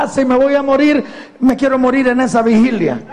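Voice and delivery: lightly acted stubborn reply to family; insistent retelling. Acted reply of dying woman.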